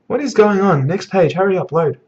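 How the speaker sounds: high-pitched, eager bewilderment; excited impatience. Real, not acted. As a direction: urge the next page on in suspense. Impatient excitement at next page.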